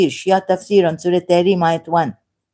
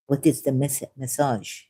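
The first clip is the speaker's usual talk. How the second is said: mock French-accented "massage" for "message"; soft, low comic French accent; Peter Sellers; 4 semitones lower, 9 dB quieter than usual. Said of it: "Peter Sellers".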